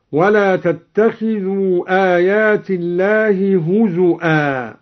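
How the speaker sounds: هزؤا with a glottal stop, huzu'an; hamza in هزؤا. Shown as a demonstration. Reciter demonstrating هزؤا with hamza. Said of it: "وهمز الواو من قوله هزوا".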